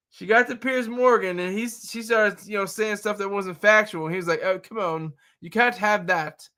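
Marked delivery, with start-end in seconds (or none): 4.4-6.5 a light, badly faked English accent; hint of mock English talk-show host; terrible English accent. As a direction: attempt an English accent for a joke. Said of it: "That's my terrible English accent".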